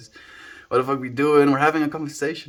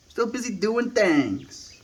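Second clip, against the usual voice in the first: high, slow put-on pet voice; voicing the pet; 10 semitones higher, slower than usual. Streamer finishing the pet's line, high and slow. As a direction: go back to the dog's slow high voice.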